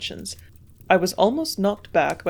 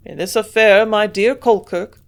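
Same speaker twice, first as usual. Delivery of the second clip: sudden burst of confidence; 2 semitones higher, 8 dB louder than usual. A narrator's reading. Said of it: "exclaimed with a sudden burst of confidence".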